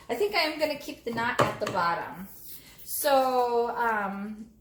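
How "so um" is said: slightly husky voice with throat catching; frog in throat. Real, not acted. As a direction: talk through a tickle in the throat. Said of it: "I got a frog in my throat".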